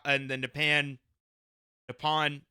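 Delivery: a failed stab at French on "Nepan"; French accent attempt. Vlogger fumbling a riding name in mock French. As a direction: try "Nepan" the French way and stumble. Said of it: "Can't do it in a French accent".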